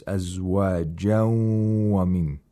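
no separate n between أزواجا and ومن, just a held nasal; idgham with ghunna. Shown as a demonstration. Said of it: "idgham of nun sakina ma'al ghunna".

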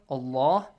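"Allah" with a full, dark, heavy l; heavy sound. Shown as a demonstration. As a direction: thicken the doubled l and vowel in "Allah". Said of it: "with a heavy sound".

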